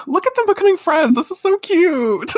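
very high, loud and fast; high fangirl gush ending in a laugh; gushing squeal. Real, not acted. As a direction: squeal with delight at the cuteness. Gushing about friendship.

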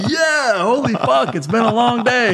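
high-pitched mock outburst; exasperated vindication. Husband to wife after the news, exasperated vindication. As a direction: let out pent-up exasperation, re-enacted.

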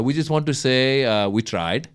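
light put-on Pakistani accent; mock spokesman with a Pakistani accent. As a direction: imitate a sheepish press conference in a Pakistani accent. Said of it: "This isn't a Pakistani accent".

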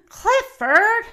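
high, loud shocked cry of the name. Acted. Mister Blinkman spotting the dog in his cookie stand, shocked cry. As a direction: blurt "Clifford!" in high alarm.

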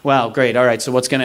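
understated, muttered-to-self irritation; annoyed. Retold or imitated. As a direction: mildly put out, sarcastic acceptance. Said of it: "I was, like, very annoyed".

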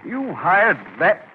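slow, incredulous question; appalled disbelief. Acted. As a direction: draw out the dismay at the new hire. Boss appalled by new hire.

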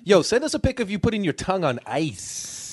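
high, punchy DJ call-out; radio DJ hype. Pretend. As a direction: hype the listeners like a radio jock. Mock radio DJ patter.

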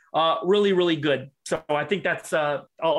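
breathless from talking fast; winded, catching breath between words. Real, not acted. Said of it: "'cause I'm out of breath".

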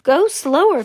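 mock panted plea, high and loud; high, loud storybook protest; panting. A narrator's reading. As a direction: plead loudly as if out of breath. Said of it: "panted Mister, Missus Salt".

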